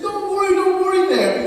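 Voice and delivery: high, quick reassurance; reassuring. Retold or imitated. Jesus to disciples left like orphans, reassuring.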